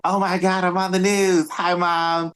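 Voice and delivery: high-pitched thrill at being on camera; excited street interviewee. Retold or imitated. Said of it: "gotten interviewed in a moment on the street".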